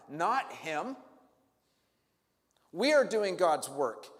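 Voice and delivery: lightly voiced, haughty muttering priests; smug, offended clergy grumbling; religious leaders grumbling about Jesus, mildly haughty; self-righteous leaders. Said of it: "I can imagine the narrative".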